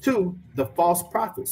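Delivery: slow, weighty reading of the verse; slow scripture reading. Acted. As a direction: read the woe deliberately.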